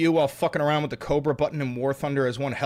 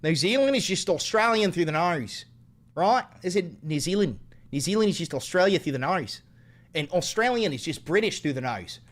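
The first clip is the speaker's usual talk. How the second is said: New Zealand accent. Shown as a demonstration. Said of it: "can you do a New Zealand accent".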